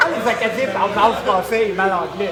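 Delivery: words broken by laughs; laughing. Real, not acted. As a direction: laugh hard through the words. Laughing over Acadian French. (en riant fort)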